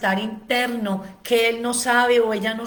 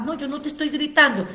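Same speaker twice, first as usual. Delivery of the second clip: mock defensive father; 4 semitones higher, much faster than usual. Acted quarrel, father denies.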